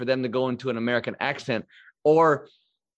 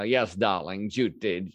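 lower, lightly put-on old Hollywood transatlantic drawl on darling; transatlantic accent; 4 semitones lower, slower than usual. Host imitates classic film stars' studio-taught voice, in mock transatlantic accent. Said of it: "that transatlantic accent".

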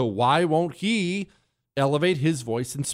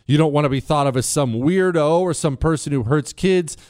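ordinary talk

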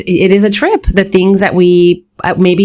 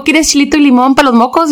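mock teasing; 6 semitones higher, faster than usual. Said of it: "They would clown me like".

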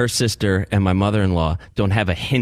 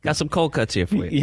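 put-on Brooklyn accent; 7 semitones higher than usual. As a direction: play a Brooklyn guy coaxing someone, pitched up. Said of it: "Like a, a guy with a Brooklyn accent".

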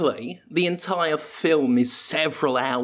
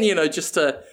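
normal talking voice

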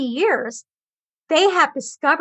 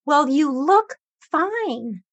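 dismissive attitude; much slower than usual. Retold or imitated. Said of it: "an attitude of".

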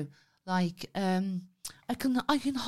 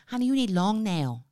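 put-on Thai accent. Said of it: "do the Thai accent".

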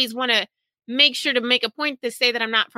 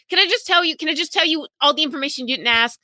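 higher, mock-pleading rush to explain; impatient pre-empting; 5 semitones higher than usual. Speaker anticipating every awkward question, mock impatient. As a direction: act out wanting it over with.

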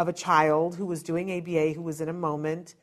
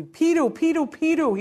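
higher, louder, delighted calling; excited child; 9 semitones higher, 4 dB louder than usual. Retold or imitated. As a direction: imitate an excited kid calling out for a favourite person. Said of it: "like, so excited".

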